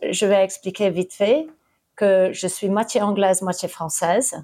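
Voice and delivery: hesitant French with English accent; halting, searching for words in French; broken french. Real, not acted. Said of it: "je parle un peu français, mais pas complètement couramment". (français hésitant avec accent anglais)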